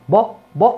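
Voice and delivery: ب as a short rounded "bu"; short damma vowel. Shown as a demonstration. Teacher demonstrating book's vowel, short and rounded. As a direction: round the lips briefly on ب. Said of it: "إنها بتضمها".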